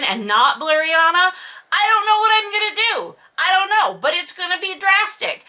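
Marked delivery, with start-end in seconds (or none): 1.8-5.4 mock dramatic panic. Real, not acted. Mock distress about plot twist.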